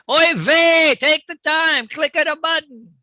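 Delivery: loud, high bad Italian Jewish accent; hammy Italian Jewish accent, loud and high. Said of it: "a combination Italian, Jewish, bad accent".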